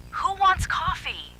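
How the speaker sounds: very high, slow, sing-song; uncanny sweet mimic. A narrator's reading. The double in Zoe's voice offering coffee, uncanny. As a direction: sound sweet but wrong. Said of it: "she asked in Zoe's voice".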